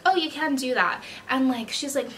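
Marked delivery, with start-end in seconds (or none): 0.1-1.0 higher, sweet put-on service voice; fake customer service. Shown as a demonstration. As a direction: refuse with sugary, fake politeness. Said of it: "I have a fake customer service voice".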